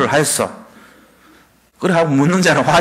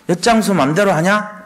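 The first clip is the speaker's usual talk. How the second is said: mocking jab; 3 semitones higher than usual. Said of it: "이렇게 비판합니다".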